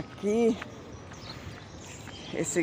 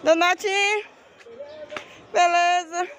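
calling out; 12 semitones higher, slower than usual. Real, not acted. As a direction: call out to a friend far away. Greeting someone across market.

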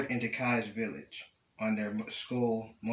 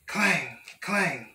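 higher, punchy clangs; clanging sound word; 6 semitones higher, 4 dB louder than usual. A narrator's reading. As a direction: voice each clang like a hammer blow. Sound words of hammering in story.

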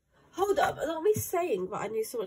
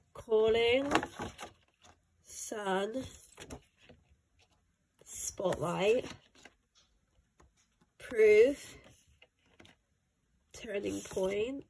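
slow American "Turning Point"; American accent; 3 dB louder, much slower than usual. Real, not acted. Reading out album track titles, in an American accent. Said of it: "Why is it in America?".

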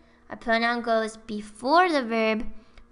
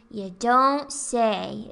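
sarcastic; much slower than usual. Shown as a demonstration. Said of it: "It's kind of sarcastic".

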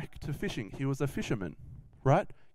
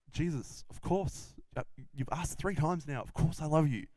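softer, halting protest at being asked; pained insistence; 4 dB quieter than usual. Acted. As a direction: insist gently, slightly hurt by the repeated question. Peter answers third repeated question.

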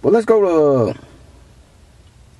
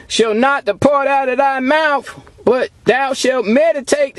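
slow, measured scripture declamation; preacher reciting scripture slowly; scripture reading; 3 semitones higher, slower than usual. Acted. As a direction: read the verse out deliberately, word by word. Reads scripture aloud to congregation.

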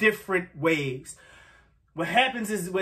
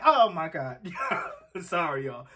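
after crying; 3 semitones lower than usual. Real, not acted. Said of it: "I'm a little teary-eyed".

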